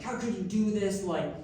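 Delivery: mock outraged telling-off; retold reaming-out. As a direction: lay into them on a big sister's behalf. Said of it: "just reaming the V P".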